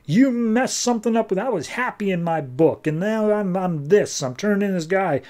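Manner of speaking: half-acted agitated whine; mock upset. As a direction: act out a bewildered man protesting what was done to him. Retold outburst of man turning demon.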